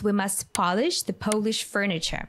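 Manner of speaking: "polish" as PAH-lish, then "Polish" as POH-lish; short o in "polish", long o in "Polish"; contrasting pronunciations. Shown as a demonstration. Reading a confusing example to learners, contrasting pronunciations. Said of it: "It sounds almost the same".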